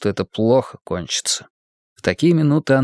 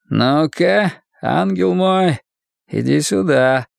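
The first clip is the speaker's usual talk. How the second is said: slow, coaxing menace; almost tender; 5 semitones higher, slower than usual. A narrator's reading. Husband calling wife over to punish her, almost affectionate. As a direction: lure her over with mock sweetness. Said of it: "произнёс он почти ласково".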